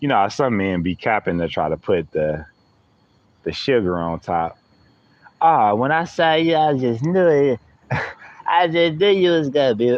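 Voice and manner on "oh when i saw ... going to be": goofy, sweet, funny wino voice, pitched up. Mimicking how some men sweet-talk a woman, in a funny wino-like voice. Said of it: "Why I'm saying it like that? I be I do funny voices".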